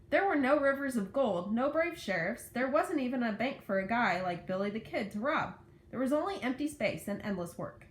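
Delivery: put-on lively read-aloud to children; story narration. A narrator's reading. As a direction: read the story with lifted key words.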